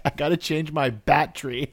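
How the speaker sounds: "bat tree" as two words for "battery"; meme pronunciation. Shown as a demonstration. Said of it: "British people be like".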